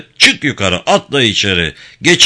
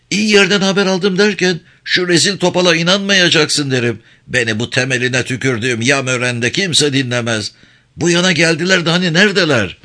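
high-pitched, mildly raised complaint; mild angry shouting; 6 semitones higher than usual. A narrator's reading. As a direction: scold an informer with pitch jumping up. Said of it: "Sen böyle bağırırsan".

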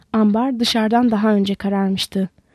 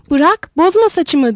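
higher, louder, slow yell; shouting; 6 semitones higher, 5 dB louder, slower than usual. A narrator's reading. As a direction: cry out in alarm, dragging the words. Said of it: "diye bağırdı kadın".

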